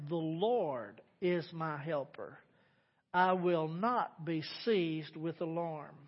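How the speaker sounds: slow, measured scripture recital; slow scripture declaration. Acted. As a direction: declare each line slowly and firmly.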